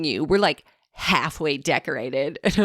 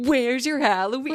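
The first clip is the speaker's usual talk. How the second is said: put-on tough, high, taunting little bully kid voice; 7 semitones higher than usual. Retelling a little boy's complaint about her house, imitating a playground bully. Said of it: "He sounded like a playground bully".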